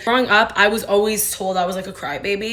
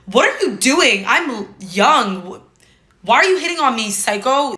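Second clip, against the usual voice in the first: louder, higher incredulous retort; mock outrage; 3 semitones higher, 4 dB louder, slower than usual. Herself to an older man hitting on her, mock outraged. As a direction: fire it back at him, indignant. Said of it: "I'm like".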